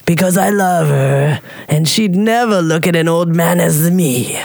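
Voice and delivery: put-on man in a light Russian accent. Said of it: "I love your Russian accent".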